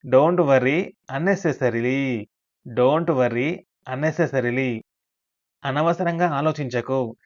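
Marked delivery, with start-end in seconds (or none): 0.1-4.8 slow model sentence. Shown as a demonstration. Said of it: "అలాంటి సందర్భాలలో".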